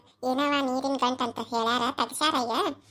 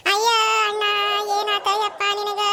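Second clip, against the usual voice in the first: higher, hammed-up lament; mock wailing; 4 semitones higher than usual. Sister hams up wailing at her brother's hospital bed. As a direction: wail over him like a grieving sister.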